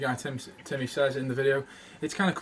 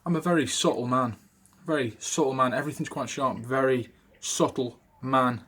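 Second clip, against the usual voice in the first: Walken accent demo. Shown as a demonstration. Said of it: "So where you say".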